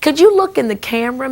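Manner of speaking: ordinary talk, nothing marked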